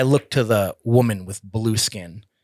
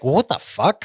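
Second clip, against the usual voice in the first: shocked outburst; 6 semitones higher, 4 dB louder than usual. Retold or imitated.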